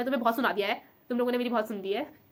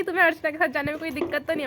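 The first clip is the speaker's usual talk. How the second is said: imitating ma'am; 4 semitones higher, 4 dB louder than usual. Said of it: "फिर ma'am मुझसे पूछती कि".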